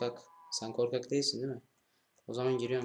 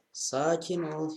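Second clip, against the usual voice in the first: soothing; 5 semitones higher, much slower than usual. Real, not acted. Soothing the cow.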